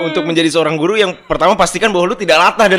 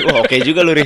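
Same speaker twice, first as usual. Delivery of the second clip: normal talking voice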